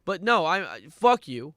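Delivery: loud, exasperated outburst at the song; angry rant. Real, not acted. Streamer cursing the song for ruining his day, angry outburst. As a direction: let the frustration explode.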